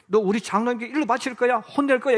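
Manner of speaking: a hint of a nagging adult; threatening child. Adult warning children about the elder, mildly threatening. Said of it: "이렇게 이야기해요".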